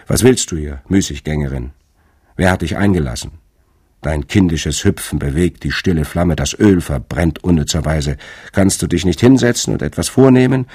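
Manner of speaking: put-on rough, scolding old hag; croaking old crone. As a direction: croak it out like a cross old woman. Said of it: "krächzte die eine mit rauen Worten".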